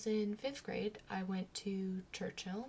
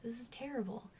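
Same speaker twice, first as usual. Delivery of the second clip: softer, half-whispered complaint; queasy murmur; 3 semitones higher, 5 dB quieter than usual. Retold or imitated. Standing in rank, feeling sick, a soft half-whisper. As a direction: groan it quietly under your breath. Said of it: "I started to feel sick".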